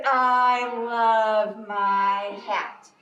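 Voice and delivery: very slow, drawn-out bear voice; content Bear. Acted. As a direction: savour each word like Bear hugging his hat. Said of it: "And Bear says".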